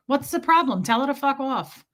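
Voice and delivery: imitating a blunt Northeastern friend; mock no-nonsense bluntness; blunt badass. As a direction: cut to the chase, mildly tough and forthright. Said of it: "just a badass about stuff".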